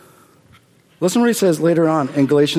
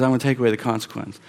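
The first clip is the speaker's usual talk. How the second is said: quick wrong version; 5 semitones lower, 5 dB quieter, much faster than usual. Shown as a demonstration. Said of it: "He doesn't".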